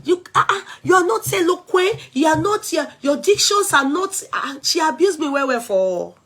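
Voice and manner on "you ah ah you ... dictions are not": a mild high mocking imitation; mocking the critic. Vlogger parroting the critic's complaint about her diction, mild mocking voice. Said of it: "Now she say".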